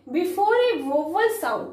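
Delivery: slow dictation. Shown as a demonstration. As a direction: read the rule word by word. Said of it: "slow dictated rule".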